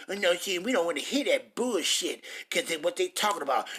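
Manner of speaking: a hint of a dismissive listener's voice; lightly mock the people who won't listen; preacher imitating doubters brushing off his words; mocking scoffer. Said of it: "You think you".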